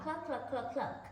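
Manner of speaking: a lightly voiced flock of clucking hens. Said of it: "cried the other hens".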